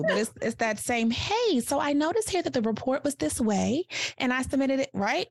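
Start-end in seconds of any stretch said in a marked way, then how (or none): 1.1-4.9 high, friendly smiling delivery. Shown as a demonstration. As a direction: smile while you say it. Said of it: "put a little smile on your face".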